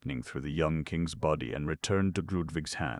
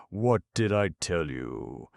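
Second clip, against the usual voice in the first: exclaiming; 3 semitones higher, 3 dB louder than usual. Acted. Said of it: "exclaimed Randy".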